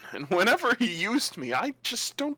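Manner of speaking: lightly voiced, innocent magic sword; naive talking sword, puzzled. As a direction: puzzle over your old master, lightly in character.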